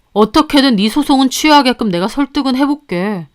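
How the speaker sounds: a lightly voiced husband, sheepish; apologetic husband. Husband apologizes to the mistress, sheepish. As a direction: mutter an excuse about his wife.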